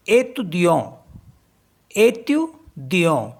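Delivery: एतुदियों slowly with nasal end; French étudiant. Shown as a demonstration. Teacher slowly modeling French étudiant. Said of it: "E T T U D I A N T".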